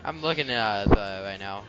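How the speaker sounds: audible heavy breathing on the mic. Real, not acted. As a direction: let every breath hit the mic. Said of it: "you're still breathing into the mic".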